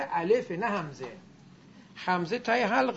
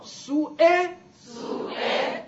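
سو ا breathed very slowly; voiceless slow drill; whispered slow demo; 8 semitones higher, 5 dB louder, much slower than usual. Shown as a demonstration. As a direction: whisper سو ا drawn out. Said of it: "تای حلقت بگو".

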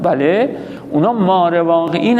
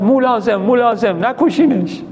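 raised, higher call to halt the firing squad; retold commander's shout; 4 semitones higher than usual. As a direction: call out the order over the yard. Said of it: "فرمانده داد زد".

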